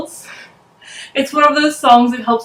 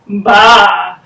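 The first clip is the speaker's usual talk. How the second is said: bleating baa; sheep baa; 3 semitones lower, 6 dB louder than usual. Shown as a demonstration. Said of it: "And the sheep says".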